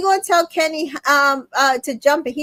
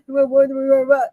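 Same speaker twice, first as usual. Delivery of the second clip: joking. Shown as a demonstration.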